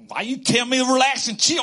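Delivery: irritated wife yelling; wife's angry comeback. Retold or imitated. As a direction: fire it back at the husband. Wife snapping back at him.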